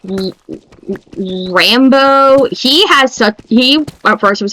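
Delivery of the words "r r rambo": stammering "Rambo" for Ranboo; dad mangling the name; fumbled name. Retold or imitated. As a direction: trip over the name, land on "Rambo". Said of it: "having a hard time saying".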